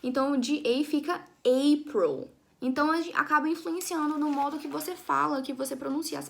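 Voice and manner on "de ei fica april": ei then April, said slowly with an English ei. Shown as a demonstration. Teacher to her class, linking ei to April slowly. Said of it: "pronunciando ela no início".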